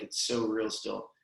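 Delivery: fighting back tears as the memory hits; choked up. Real, not acted. Telling a friend about the song that made him cry, choked up. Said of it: "dude, I get choked up thinking about it".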